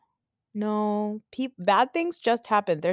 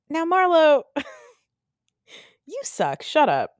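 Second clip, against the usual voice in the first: laughing scold; 9 semitones higher, 4 dB louder than usual. Real, not acted. Scolding Marlo through laughter.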